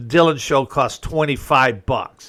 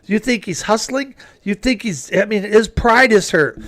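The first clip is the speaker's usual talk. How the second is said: higher, forceful indignant scolding; retold heated lecture; 6 semitones higher than usual. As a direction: defend the veteran against the hecklers. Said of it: "I'm like".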